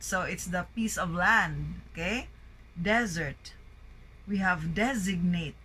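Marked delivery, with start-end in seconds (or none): 2.8-3.5 Desert stressed on DEZ; first-syllable stress. Shown as a demonstration. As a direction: say DEZ-ert, falling at the end. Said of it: "Words with a primary stress on the first syllable".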